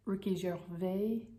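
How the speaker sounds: "Gervais" said French-style, zher-VAY with silent s; French pronunciation. Shown as a demonstration. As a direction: slowly give "Gervais" a French soft zh and open -ay ending. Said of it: "his name sounds French, so it should be".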